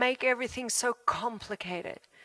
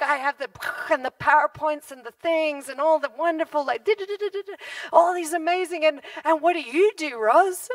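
boastful ministers; 3 semitones higher, 4 dB louder than usual. Retold or imitated. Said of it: "They're like".

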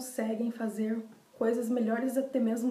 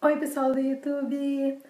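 high, slow, sing-song cutesy greeting; chirpy idol-style hello to viewers; cute anime streamer; 4 semitones higher, 4 dB louder than usual. Acted. Cutesy greeting opening the vlog.

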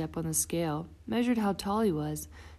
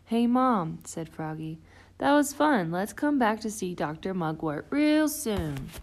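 excited Froggy; 2 semitones higher, 4 dB louder than usual. Acted. Froggy excited after visit.

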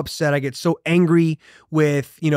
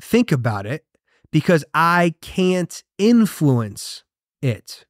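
mentor's calm reply; slower than usual. Retold or imitated. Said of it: "He said".

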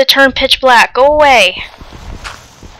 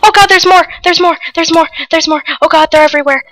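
rapid panicked repeating; 2 semitones higher, faster than usual. Real, not acted. Player swarmed by more monsters, panicked. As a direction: cry out in alarm, repeating it urgently.

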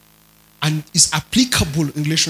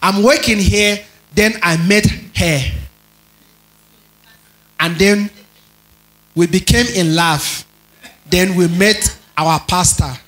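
teasing imitation of a Ghanaian accent. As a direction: tell it as a Ghanaian would, "working" as weking. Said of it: "Is that how they say it?".

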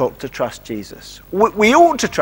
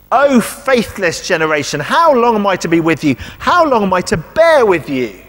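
mild, exasperated scolding; telling off; 2 semitones higher than usual. Acted. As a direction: scold the whole crowd with mounting exasperation. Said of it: "Jesus gives him quite a telling off".

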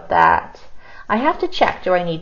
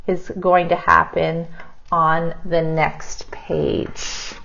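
ordinary delivery

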